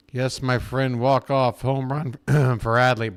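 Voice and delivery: hoarse, worn-out voice after cheering; hoarse from yelling. Real, not acted. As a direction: voice shot and hoarse. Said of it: "Boy, my voice is shot".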